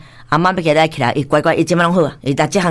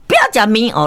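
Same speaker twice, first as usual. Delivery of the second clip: higher-pitched mock refusal; rebellious toddler; 5 semitones higher than usual. Grandmother retelling grandchild refusing noodles, mildly mock-defiant. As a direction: lightly mimic a child refusing food. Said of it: "伊就这样叛逆期".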